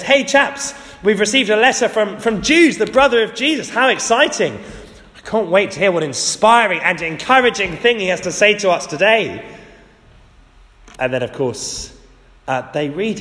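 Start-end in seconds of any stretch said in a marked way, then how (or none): 0.0-9.4 bright, eager voice, pitched well up; excited church member. Retold or imitated. Churchgoer announcing Jude's letter, excited and high. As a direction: play an eager congregant thrilled by the letter. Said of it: "someone says".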